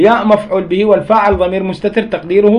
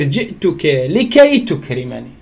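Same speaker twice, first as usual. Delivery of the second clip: slow demo; 6 semitones lower, 3 dB quieter, slower than usual. Shown as a demonstration. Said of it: "يصير شنو لفظها".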